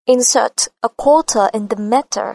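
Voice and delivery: British accent, slow, T in "quarter" and "matter" crisp; British, hard T in "matter". Shown as a demonstration. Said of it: "Giọng cô giòn và sắc". (giọng Anh, chữ "matter" bật T giòn)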